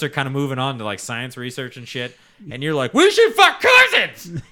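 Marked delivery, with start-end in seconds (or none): 2.9-4.4 squealed high and loud, slowly; mock yell. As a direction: ham up a redneck hollering it. Mocking Southerners, yelled quote.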